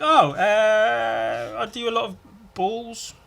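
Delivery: high, put-on voice; mock innocent voice. Artist answering a stranger, naive high voice.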